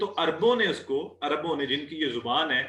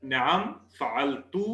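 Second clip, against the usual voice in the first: slow Arabic answer; 2 semitones lower, slower than usual. Shown as a demonstration. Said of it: "तो".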